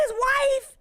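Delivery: loud, high disbelieving his wife; shocked dad. Retold or imitated. Dad stunned by the news, loud and high.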